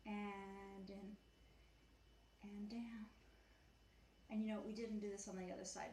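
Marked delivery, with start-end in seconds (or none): 0.0-3.0 whispered cue. Real, not acted. Cue during a gentle stretch.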